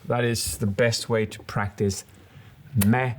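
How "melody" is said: "melody" split into sung syllables; sing-song "me-lo-dy"; melodic delivery. Shown as a demonstration. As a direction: draw out "melody" like a little tune. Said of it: "almost like you're singing".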